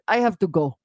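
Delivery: mock Russian accent, curt; lightly put-on Russian accent. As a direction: imitate a Russian accent briefly. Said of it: "I was speaking in a Russian accent".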